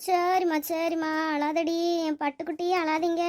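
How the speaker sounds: tender hushing of an infant; soothing baby talk. Acted. Finder comforts the crying baby on the bench, tender coaxing.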